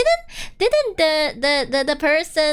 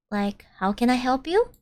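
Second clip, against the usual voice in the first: put-on Valley Girl accent; 3 semitones lower than usual. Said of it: "I get to use my Valley Girl accent".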